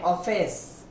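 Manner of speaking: "ऑफिस" with a rounded open ऑ; "ऑफिस" said the English way, open ऑ; English o in office. Shown as a demonstration. Teacher shows students the open ऑ in "ऑफिस". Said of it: "सब ऑफिस बोलते हैं".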